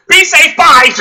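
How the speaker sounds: high, loud chirpy brush-off; mocking Emily. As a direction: toss off a breezy goodbye, mocking her. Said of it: "she's just like".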